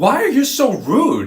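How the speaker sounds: very high, shrill, irritated and angry voice. Recounting a ticket mix-up after a ten-hour flight and quoting the woman: mock-annoyed, angry voice. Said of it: "in a very like annoyed, angry voice".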